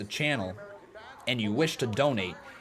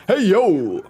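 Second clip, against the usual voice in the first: loud, high Razor Ramon greeting; terrible impression; 7 semitones higher, 7 dB louder than usual. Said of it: "that's a terrible impression".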